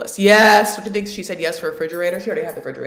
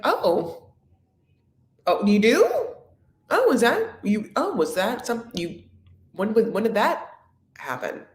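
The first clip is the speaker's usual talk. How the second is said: mock stammering surprise; 4 semitones higher than usual. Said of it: "And I was like".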